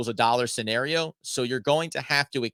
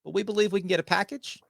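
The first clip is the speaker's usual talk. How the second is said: mock Masai Ujiri impression; 3 semitones higher than usual. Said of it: "That's as far as that's gonna go".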